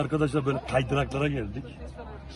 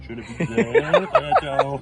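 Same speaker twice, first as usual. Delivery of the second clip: laughing; 7 semitones higher, 6 dB louder, slower than usual. Real, not acted. Starting down the slide.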